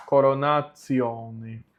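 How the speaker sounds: "coronatione" slowly, co-ro-na-tsi-O-ne. Shown as a demonstration. Teacher summing up the rule, TI said as tsi. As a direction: stretch "coronatione" with a clear ts. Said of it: "a pronúncia fica".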